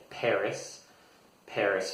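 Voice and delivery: "Paris" said PAIR-iss, with the final s sounded; American "Paris", stressed on the first syllable; American pronunciation. Shown as a demonstration. Teacher showing how it differs from French, American "Paris". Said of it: "in American English, we usually say".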